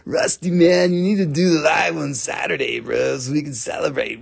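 lightly voiced Nicole calling him bro; imitating Nicole. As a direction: nag him like a buddy. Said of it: "she talks just like that".

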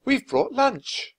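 high and slow, sing-song; slow, bright news for the patients; Annie. A narrator's reading. Annie voiced.

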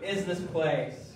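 awed hush. Acted. Jacob waking in awe at the gate of heaven. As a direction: let the awe slow every word. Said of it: "he says".

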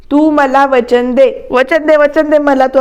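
mildly insistent, drawing the words out. Retold or imitated. Father demanding a promise from his wife, slow and insistent. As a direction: press her for the promise, slowing down. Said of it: "बाबा आता इरेला पेटलेत".

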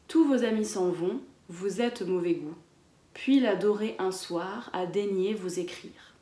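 poem read to a class; poem recital. Acted. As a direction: recite the verse with care. Reads the poem aloud.

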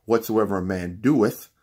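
doeth hit hard as the key word; stress on doeth. Shown as a demonstration. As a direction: punch doeth, swapped into the verse. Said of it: "Let me read it like this".

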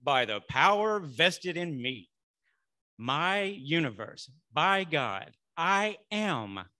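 loud, slow proclamation; Moses-like authority. Acted. Preacher models a declaration for the congregation, loud and authoritative like Moses. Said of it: "say it with authority. So I'm gonna be like Moses".

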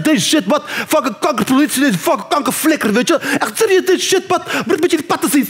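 mock Dutch street slang; street kid slang. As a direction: mimic wannabe gangster teens. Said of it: "praten gaat zoiets als van".

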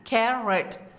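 कैरेट split into two parts, कै, रेट; syllable by syllable. Shown as a demonstration. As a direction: say कैरेट in two separate beats. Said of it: "divide कर देंगे". (कैरेट को दो हिस्सों में तोड़कर बोलें)

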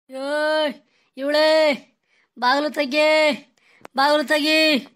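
loud urgent calls to open the door; frantic calling out. Acted. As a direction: pound on the door and call in panic. Scared man banging at door. (ಗಾಬರಿಯಿಂದ ಬಾಗಿಲು ತೆಗೆಯಲು ಜೋರಾಗಿ ಕೂಗುವುದು)

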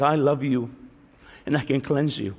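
low, gentle, softened voice; Jesus. Retold or imitated. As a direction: say it tenderly, dropping the pitch. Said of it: "Jesus was speaking to me".

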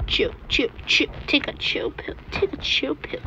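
hushed whisper. Real, not acted. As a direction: whisper it soft. Whispering to the baby.

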